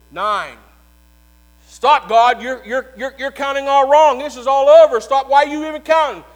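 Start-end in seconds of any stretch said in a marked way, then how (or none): 1.7-6.2 loud, fast, desperate pleading to stop; frantic devil. Acted. Preacher playing Satan begging God to stop, frantic shout. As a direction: beg God to stop counting.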